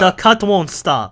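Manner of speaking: slow mock Asian accent; broken-English Asian granny accent, drawn out; old Asian lady. Old Asian lady with a cut, mock Asian accent. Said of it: "it's an old Asian lady".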